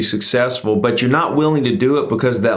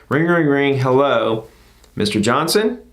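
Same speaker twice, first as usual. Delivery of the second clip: demo call opener. Shown as a demonstration. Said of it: "so it's gonna say".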